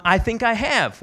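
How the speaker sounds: lightly imitated Southern woman; southern accent. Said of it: "with her southern accent".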